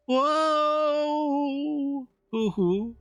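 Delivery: high, exaggerated whoa of amazement; hammed-up spooky wonder; surprised whoa. Real, not acted. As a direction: gasp up high in mock awe. Reacting to ghost story.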